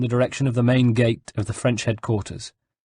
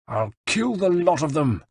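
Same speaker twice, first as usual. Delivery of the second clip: muttered threat; 7 semitones higher than usual. A narrator's reading. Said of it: "muttered Bartolomeo".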